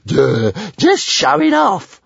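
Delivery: stuttering, high grumbling dragon voice; slow, stuttering creature complaint; muttering. A narrator's reading. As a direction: stammer it out in a disgruntled huff.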